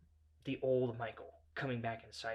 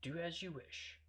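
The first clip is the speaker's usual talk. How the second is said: soft, slow and polite; hushed, deferential apology; quiet, simple politeness; 4 semitones higher, 9 dB quieter, slower than usual. Retold or imitated. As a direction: back down softly, with pauses. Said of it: "I simply said".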